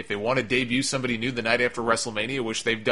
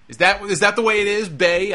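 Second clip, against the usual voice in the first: sarcastic, incredulous, rising quickly; mock exasperation; 8 semitones higher, 5 dB louder than usual. Real, not acted. Podcaster mocks fans correcting his pronunciation, incredulous. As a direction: act baffled at being corrected. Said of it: "I had people browbeating me".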